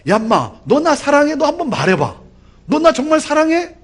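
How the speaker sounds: mock cynical challenge. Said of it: "그런 시니컬한 그런 질문이냐". (비꼬듯 추궁하는 흉내)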